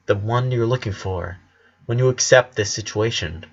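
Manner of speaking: a hint of a steady teacher speaking low; gentle sensei. Sensei consoles crying student.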